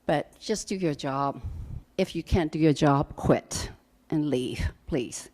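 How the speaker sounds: blubbering. Real, not acted. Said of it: "I'm blubbering".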